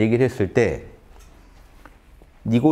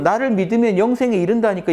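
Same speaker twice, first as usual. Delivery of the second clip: voicing Jesus; 9 semitones higher than usual. Preacher voicing Jesus' claim.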